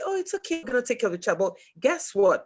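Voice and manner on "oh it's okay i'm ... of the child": high-pitched, mildly put-on reassurance; mock reassurance. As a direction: imitate a teacher sweetly reassuring a parent. Voicing teachers reassuring a mother.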